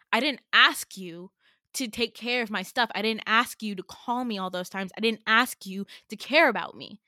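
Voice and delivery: loud, mock-furious retelling; angry outburst. A yelling at the narrator, mock loud anger. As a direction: hammer each "I didn't ask".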